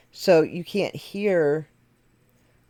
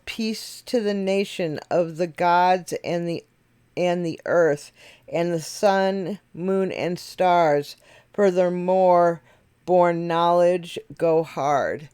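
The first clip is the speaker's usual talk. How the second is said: slow New York rap cadence, lightly put on; half-hearted Brooklyn rap delivery; rapper's Brooklyn accent; slower than usual. Shown as a demonstration. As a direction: ride the cadence of the verse in his accent. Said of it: "I'm trying to do the, uh, accent".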